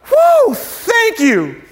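high, drawn-out whoop of pretend relief; mock relief. Man walking out after his debt was cancelled, hammed-up relief. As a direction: act out hugely relieved thanks, very slowly.

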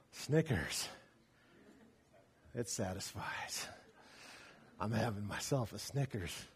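low, soft Snickers commercial voice; hushed mock commercial, low and soft. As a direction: purr it like a candy ad announcer. Imitating candy ad in store.

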